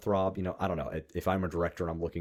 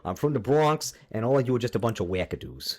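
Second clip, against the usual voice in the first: mock Bronx-Michigan accent; 3 semitones higher than usual. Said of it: "combined a little bit of a Michiganer accent".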